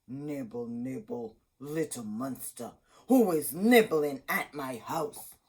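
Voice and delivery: a hint of a creaky witch calling out. A narrator's reading. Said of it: "a voice calling from inside".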